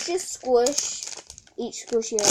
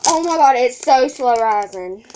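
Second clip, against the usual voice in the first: excited; 9 dB louder than usual. Real, not acted. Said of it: "Sorry if I squeal a lot".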